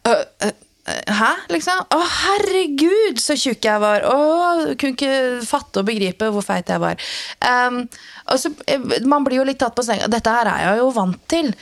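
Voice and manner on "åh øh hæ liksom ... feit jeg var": mocking the stranger. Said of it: "Og så sånn".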